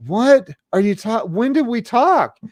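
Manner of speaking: high-pitched retold confusion; baffled questioning. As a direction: break off and ask, acting baffled. Bewildered question, acted.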